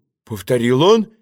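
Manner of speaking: ordinary delivery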